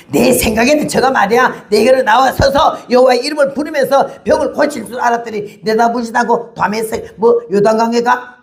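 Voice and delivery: mock outrage at being ignored; indignant retort. Preacher voicing the offended general, indignant. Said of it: "화가 났어요".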